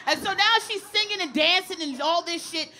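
ordinary talk, nothing marked

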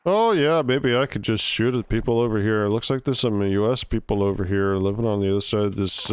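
easygoing Canadian voice; Canadian accent. Retold or imitated. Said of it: "try to do a Canadian accent".

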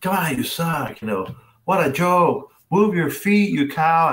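high, loud self-berating outburst; exasperated player yelling at himself; ragging on himself. Retold or imitated. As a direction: berate yourself out loud, pitch way up. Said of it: "full on ragging on myself".

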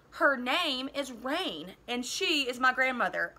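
put-on a boy stiffly correcting the officer, stiff. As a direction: hold it stiff and proper. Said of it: "I said stiffly".

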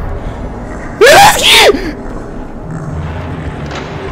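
shrill hyped squeal, high above the voice; high-pitched whoop. Real, not acted. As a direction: let out a high excited whoop. Hyped outburst before the video.

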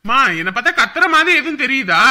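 loud, irritated protest. Acted. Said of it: "இப்ப ஏன் சத்தமா பேசுற?".

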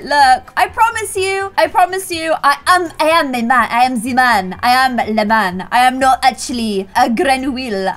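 smooth-talking French prince; butter her up in French accent. Retold or imitated.

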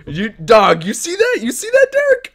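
very high, loud outraged yell; real squealing outrage at Derek. Real, not acted. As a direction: shriek at the card. Yelling at the card.

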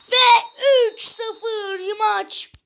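high, drawn-out shouted goal call; screaming football commentator. Acted. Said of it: "bağırabilmiş olabilirim".

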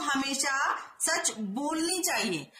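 हमेशा सच बोलनी चाहिए read slowly, word by word; slow careful reading. Shown as a demonstration. Teacher reading the wrong sentence slowly to students. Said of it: "बोलनी चाहिए, बोलना चाहिए".

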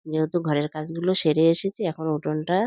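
talking around a toothbrush; muffled words with a brush in mouth; while brushing teeth. Real, not acted. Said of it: "এখন দেখো brush করতে করতে". (দাঁত brush করতে করতে কথা বলা)

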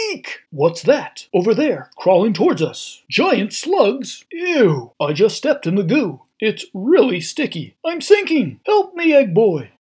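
high, loud squealing panic; panicked cartoon voice. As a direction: shriek for help as you sink. Banana Man sinking in goo.

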